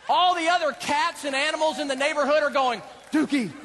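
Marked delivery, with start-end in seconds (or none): 3.1-3.5 excited shout. Retold or imitated. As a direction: cheer it out. Celebrating the found cat.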